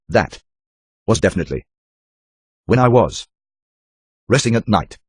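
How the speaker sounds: timid woman. Acted. Captive woman answering.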